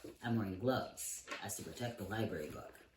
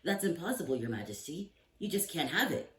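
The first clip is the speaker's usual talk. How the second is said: put-on protesting page boy; 8 semitones higher, 5 dB louder than usual.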